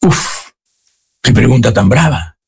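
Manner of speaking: falso asombro, con sorna; sarcástico. Real, not acted. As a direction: finge con ironía que la pregunta es difícil. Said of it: "Sarcástico, muy sarcástico". (tono sarcástico, de burla contenida)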